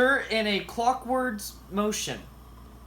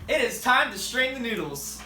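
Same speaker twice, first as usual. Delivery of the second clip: flat robot voice, each word even; "It is time to strain the noodles" as a stiff robot; 3 semitones higher than usual. Pretend. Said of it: "You sound like a robot".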